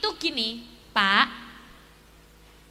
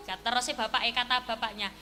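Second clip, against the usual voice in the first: usual speaking voice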